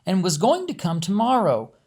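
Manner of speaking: steady storyteller reading a novel aloud; story narration. A narrator's reading. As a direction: tell it evenly, like reading a chapter to listeners.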